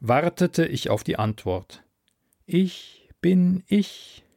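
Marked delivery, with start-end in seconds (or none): 2.5-4.2 slow, higher, otherworldly voice; drawn-out alien calm; alien sea voice. Acted. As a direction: speak as a vast ocean mind, unhurried. Alien sea mind speaks.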